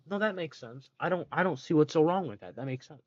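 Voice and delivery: dry sarcasm, pretending to agree; sarcastic. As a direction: say it as if it obviously makes no sense. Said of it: "I'm being very sarcastic".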